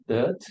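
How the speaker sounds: "dirt" with the R left silent; British, no R. Shown as a demonstration. Teacher showing British pronunciation, "dirt" without the R. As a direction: say "dirt" as a long vowel straight into T. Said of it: "without the R sound".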